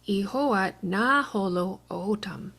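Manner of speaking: slow "ihoat na holo otam" with falling end; Chickasaw question. Shown as a demonstration. Teacher modeling a Chickasaw question, slow. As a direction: say "ihoat na holo otam" slowly, pitch going down. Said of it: "Was the child Chickasaw?".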